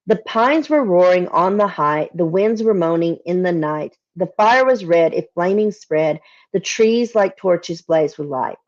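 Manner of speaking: slow, measured recitation of verse; poem reading. Acted. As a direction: read it like an old ballad, savouring each line. Reading the stanza again.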